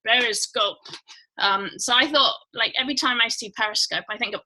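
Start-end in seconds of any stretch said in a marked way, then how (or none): 0.1-0.8 lightly imitated Russian submarine accent. Imitating Russians on a movie submarine, mock Russian accent. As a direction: mimic a movie Russian's accent calling a command. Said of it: "they always have the Russians".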